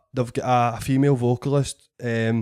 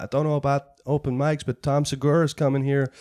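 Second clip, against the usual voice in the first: put-on American accent. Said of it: "Sorry if I'm killing your accent".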